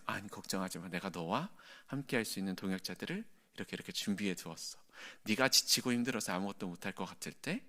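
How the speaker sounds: soft, reassuring, fatherly; calm the weary servant softly; God gently reassuring tired Elijah, soft and warm; gentle reassurance. Acted. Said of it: "굉장히 부드럽게".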